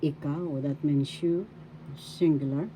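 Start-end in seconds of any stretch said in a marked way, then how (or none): 0.0-0.6 Ikaw with KAW accented, then falling; stress on second syllable. Shown as a demonstration. Teacher shows learners the accent, second syllable of Ikaw stressed. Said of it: "Second syllable has the accent".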